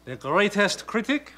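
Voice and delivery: lightly put-on fake French accent; a critic hamming up a French accent; phony French accent. Critic introduces himself to the young painter in a phony French accent. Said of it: "a phony accent like this".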